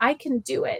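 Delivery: put-on weak, sickly-sounding voice. Speaker recounting Logan answering his principal, imitating Logan sounding unwell. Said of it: "you could just hear it in his voice".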